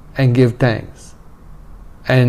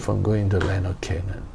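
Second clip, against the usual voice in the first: whispered; 4 semitones lower, 10 dB quieter, faster than usual. Real, not acted. Solemn point of Moses' loss.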